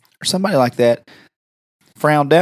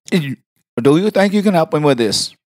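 put-on, over-formal caller; prank caller voice; 3 semitones higher than usual. Asking the receptionist for help, prank caller voice. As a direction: ask earnestly as the prank caller. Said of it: "Why can you talk like, exactly like that".

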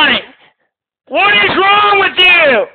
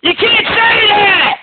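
high yelling stop, then a slow shouted question; screaming; 3 semitones higher, slower than usual. Real, not acted. Host yells at a troll caller on the hotline, screaming. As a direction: cut the troll off with a panicked yell.

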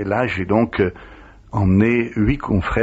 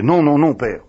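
loud protest; 6 semitones higher, 4 dB louder than usual. Retold or imitated. Penitent protesting to the priest.

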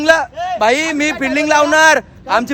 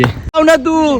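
higher-pitched irritated demand; 4 semitones higher, much slower than usual. Real, not acted. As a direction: press them impatiently in a higher voice. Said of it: "असं चिडके".

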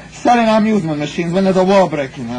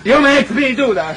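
accusing; 7 semitones higher than usual. Acted. Husband repeats blame, higher.

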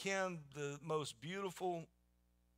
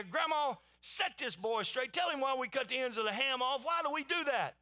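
loud demand; 8 semitones higher, 4 dB louder than usual. Retold or imitated. Wife storming into Grandma's house, demanding loudly. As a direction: call out high and loud to Grandma.

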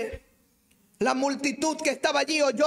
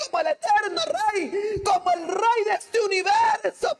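raised, ringing preacher's proclamation; preaching at full force; 7 semitones higher than usual. Acted. Preacher exalting Christ before the congregation, fervent. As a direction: proclaim his kingship to the church.

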